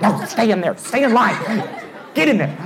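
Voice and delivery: high-pitched mock ordering; insistent friend. Friend stopping rider who's trying to get out, insistent mock orders. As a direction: push them back with urgent little commands.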